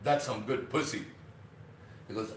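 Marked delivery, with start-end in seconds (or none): 0.0-1.0 lightly voiced impressed exclamation; mild mock delight; example reaction. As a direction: say it like something real just hit you. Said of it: "and you go".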